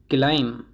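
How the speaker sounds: क्लाइम ending on m, B silent. Shown as a demonstration. Teacher modelling climb for learners, क्लाइम with silent B. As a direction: close क्लाइम on the m, no b. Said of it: "इसमें बी silent होता है".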